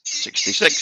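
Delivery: bingo caller. Pretend. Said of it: "How would you read the bingo numbers".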